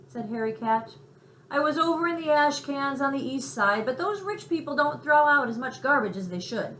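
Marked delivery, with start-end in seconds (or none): 1.5-6.8 higher, louder put-upon cat; a cat complaining about thin pickings; grumbling alley cat. A narrator's reading. Cat grumbles to mouse about garbage.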